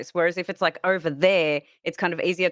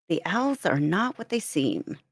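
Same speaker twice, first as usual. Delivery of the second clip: put-on American accent. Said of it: "read Twitch chat in accent".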